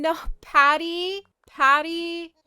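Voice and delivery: loud, high-pitched shocked questioning; dismayed disbelief. Real, not acted. Player spots unwanted Patty in the news, dismayed. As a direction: cry out the name in disbelief. Unwelcome villager turns up in the news.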